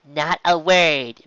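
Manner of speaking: slow, firm insistence; determined not to say a word; insistent. A narrator's reading. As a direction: drag it out, firm and stubborn. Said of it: "she insisted".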